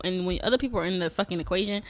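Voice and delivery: ordinary talk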